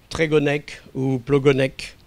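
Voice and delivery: Trégonec and Plogonec read evenly, no stressed syllable; French-style reading. Shown as a demonstration. Lecturer reading Breton road-sign names, without tonic stress. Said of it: "c'est pas Trégonec".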